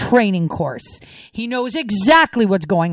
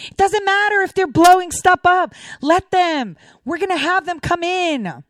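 higher sneering mimicry of Obama; mocking; 7 semitones higher than usual. Mocking Obama's imagined stance.

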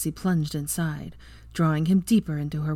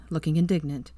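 ordinary delivery, nothing marked

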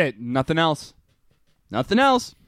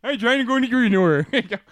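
higher mock Southern voice; Southern accent; 5 semitones higher than usual. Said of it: "That came out weird".

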